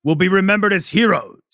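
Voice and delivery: rallying speech. Acted. Commander addressing troops.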